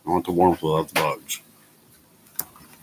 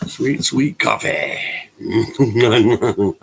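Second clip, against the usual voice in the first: delighted; 4 semitones higher, 6 dB louder, much slower than usual. Real, not acted. Enjoying coffee.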